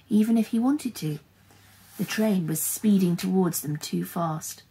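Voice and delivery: dramatic storyteller; story narration. A narrator's reading. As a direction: read the tense action out to children with punchy key words. Reads a story aloud.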